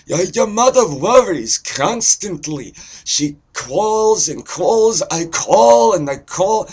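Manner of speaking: loud, high, nagging Jewish parent; Jewish guy accent. Shown as a demonstration. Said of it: "so there's Jewish".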